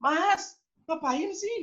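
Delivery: high mock yell at the older son; exasperated yell. Parent yelling at the son over the broken plate, high. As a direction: call out at the boy, fed up. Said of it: "teriak-teriak semuanya".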